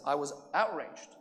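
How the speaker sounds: mock outrage, rising in volume to the last question; outraged. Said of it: "raised my voice on him".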